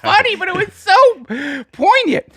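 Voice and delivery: high, lilting mock lament; sing-song it like a sad ballad; mock mournful.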